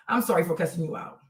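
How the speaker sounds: low, subdued real apology; apologetic. Real, not acted. Apologising to a commenter for cursing, subdued. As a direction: drop the voice right down to say sorry.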